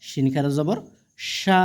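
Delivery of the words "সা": long, steadily held vowel; drawn-out vowel. Shown as a demonstration. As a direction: stretch the vowel out evenly. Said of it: "টেনে পড়তে হবে". (টেনে পড়া, লম্বা স্বর)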